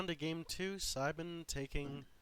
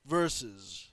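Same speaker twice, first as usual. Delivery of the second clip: fighting game announcer; 5 dB louder, slower than usual. Pretend. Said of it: "you have to do it".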